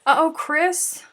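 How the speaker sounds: sudden high loud uh-oh; high, loud worried call-out to Chris; alarmed. Real, not acted. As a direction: sound the alarm for a friend. Reacting to chat news.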